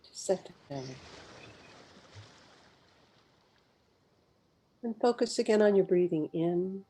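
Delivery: unhurried meditation guide, long pauses between phrases; guided meditation. Real, not acted. Guide leading live listeners through a mindful pause, guided meditation. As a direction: guide listeners gently inward, phrase by phrase, leaving space to breathe.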